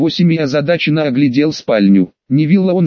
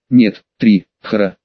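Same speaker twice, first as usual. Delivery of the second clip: barked; 6 semitones lower, slower than usual. A narrator's reading. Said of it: "рявкнул Драко".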